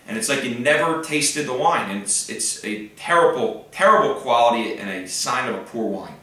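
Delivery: winded, breathless delivery; out of breath from talking fast. Real, not acted. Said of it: "out of breath talking about".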